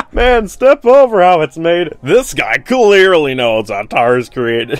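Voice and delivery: mock the writer while still laughing; laughing sarcasm. Real, not acted. Sarcasm at story logic.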